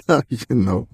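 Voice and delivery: Now you know said slow with a laugh; slow laughing repeat. Shown as a demonstration. Host closing the Fraggle joke with a slow laughing catchphrase. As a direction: drag it out like a jingle.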